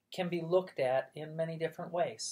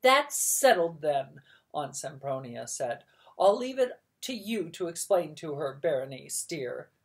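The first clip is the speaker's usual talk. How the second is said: bossy aunt; 6 dB louder than usual. Acted. Bossy aunt settling matters.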